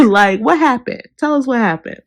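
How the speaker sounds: high, loud laughing outburst; laughing demand. Real, not acted. Vlogger laughing as she demands Angie explain what happened. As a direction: burst out laughing and press her for answers.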